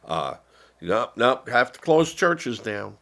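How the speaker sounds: sarcastic imitation of covid rules; mocking officials. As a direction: parody a scolding bureaucrat shutting things down. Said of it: "when they said".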